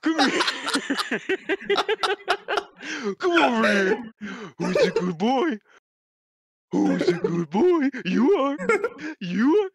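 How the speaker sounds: high coaxing dog-calling voice. Acted. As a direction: coax him over like calling a puppy. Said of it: "trying to get a dog to come over".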